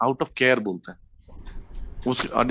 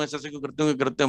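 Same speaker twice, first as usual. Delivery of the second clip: calm, softer scolding kept under control; controlled mock scolding; 4 dB quieter, faster than usual. Shown as a demonstration. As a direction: scold without losing your temper. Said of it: "जैसे ही मैं इनको डांट रहा हूँ". (शांत, नियंत्रित डांट)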